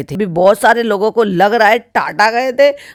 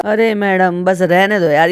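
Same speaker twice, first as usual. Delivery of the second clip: ordinary delivery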